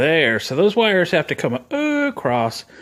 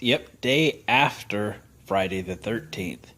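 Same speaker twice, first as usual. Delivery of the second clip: slow, softer mock-spooky whisper; 4 semitones lower, 6 dB quieter, slower than usual. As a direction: hush it like a ghost story, slowly. Spooky aside about Friday thirteenth.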